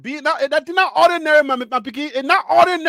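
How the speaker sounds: "not ordinary" in a lively Liberian accent; a man showing the phrase in his Liberian accent. Shown as a demonstration. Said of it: "Even in my Liberian accent".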